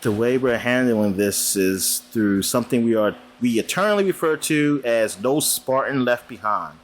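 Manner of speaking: steady, measured read of the announcement; reading a news post. Acted. Host reads Halo co-op announcement to cohost, measured read. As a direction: read the studio's post out like a press release.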